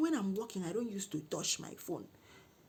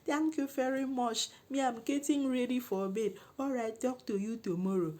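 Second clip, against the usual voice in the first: raised, sweetened-up phone pitch; polite phone voice; 5 semitones higher than usual. Retold or imitated. Woman getting ready for bed ends his call, high polite voice.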